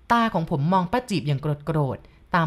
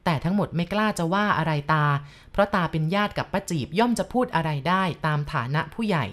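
ordinary delivery, nothing marked

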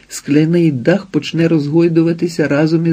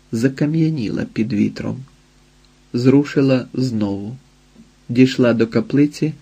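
ordinary delivery

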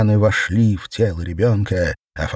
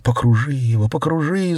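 shrieking; 7 semitones higher than usual. A narrator's reading. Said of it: "завизжала Светлана".

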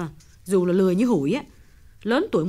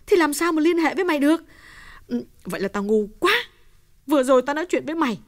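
much higher, fast panicked realisation; 14 semitones higher, faster than usual. A narrator's reading. Uyên realises on the phone her husband tricked Hồng, panicked. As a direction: cut in, horrified. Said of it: "Kim Uyên hốt hoảng ngắt lời".

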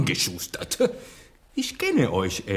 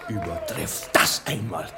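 triumphant shout; 4 dB quieter than usual. Acted. Lope de Vega taunting the English players, a high triumphant shout. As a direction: crow it at the rivals.

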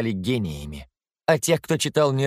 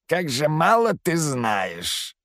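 clattering jaw cackling skull; 4 semitones higher, much slower than usual. A narrator's reading. Skull mocks the narrator.

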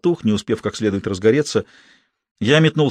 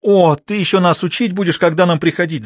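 high, loud indignant wail; wailing loudly; 7 semitones higher, 3 dB louder than usual. A narrator's reading. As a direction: cry out in offence. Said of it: "заголосила Маша".

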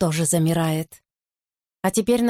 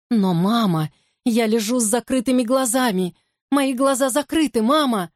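put-on frightened high child voice; 4 semitones higher than usual. Child protests in fear.

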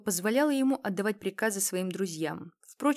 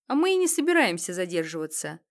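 loud retort; 8 dB louder than usual. Acted. Thug retorts loudly.

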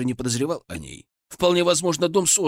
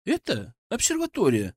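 laughing; 8 semitones higher than usual. A narrator's reading. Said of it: "рассмеялся я".

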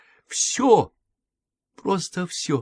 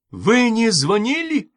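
much higher, shouted accusation; cry out; 8 semitones higher, 4 dB louder than usual. A narrator's reading. Patient exposing the nanny's lie, a high cry. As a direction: fling the question at her. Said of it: "Крикнула Эвридика".

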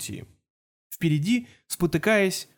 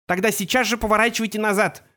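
fierce order; 5 semitones higher than usual. A narrator's reading. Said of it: "свирепо произнесла миниатюрная дама".

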